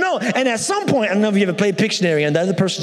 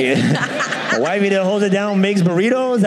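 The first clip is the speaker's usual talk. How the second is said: laughing question; 4 semitones higher than usual. Retold or imitated. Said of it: "But she's like".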